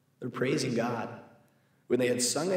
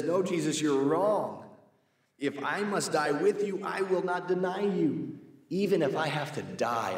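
higher, insistent vow of loyalty; emphatic protest; 5 semitones higher than usual. Acted. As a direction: swear you'll never deny him. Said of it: "he said emphatically".

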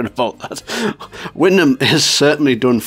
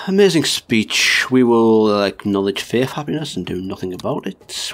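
mock speech.

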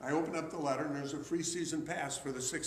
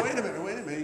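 louder and higher, laughing while calling; laughing call back; 5 semitones higher, 6 dB louder, much faster than usual. Retold or imitated. Owner calls him back, retold.

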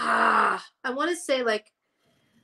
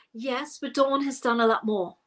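lower, imitated English accent; 3 semitones lower than usual. Retelling the interviewer's put-down of a bandmate, English accent. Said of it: "In her English accent".

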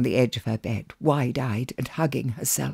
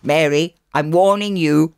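stern warning; 3 semitones higher, 5 dB louder than usual. Acted. Brother warns sister.

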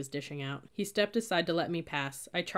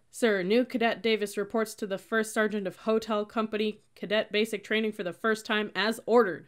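louder, higher, crisp recruit report; yelled report; 5 semitones higher, 6 dB louder than usual. A narrator's reading. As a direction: bellow the report to the first sergeant. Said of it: "and yelled".

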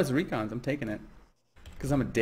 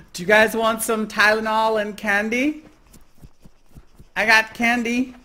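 serial killer voice; 5 semitones higher, 6 dB louder than usual. Pretend. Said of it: "You sound like a serial killer".

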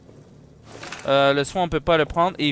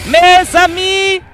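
slow, loud, high hammed-up announcer call; mock announcer; 12 semitones higher, 10 dB louder, much slower than usual. Player addressing the viewers, hammed-up announcer. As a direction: announce it grandly like a host.

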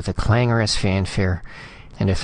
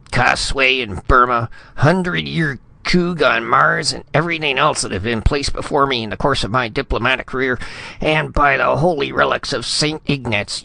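furious rant; 6 semitones higher than usual. Acted. Furious ambassador berating subordinate.

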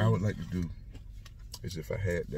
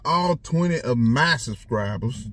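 excited shout-out; 5 semitones higher, 6 dB louder, slower than usual. Real, not acted. Shout out to viewers.

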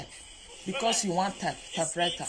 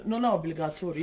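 Italian; faster than usual. Shown as a demonstration. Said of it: "Italian say".

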